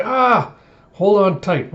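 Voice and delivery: high cry, then urgent warning; imitated alarm. Sailors bracing at the falls, alarmed. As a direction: yelp and call out as if about to drop. Crew going over the falls.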